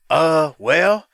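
slow, drawn-out phone number in a retold voice; casual, unhesitating. Coco gives fans his number on air, casual. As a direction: give out the number as if to a buddy. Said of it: "like he was just talking to his boy".

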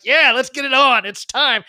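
fired up and ready to fight; eager fight call. Retold or imitated.

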